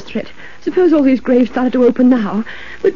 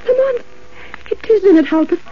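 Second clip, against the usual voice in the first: frightened; 7 semitones higher than usual. Acted. She sees the ghost rise.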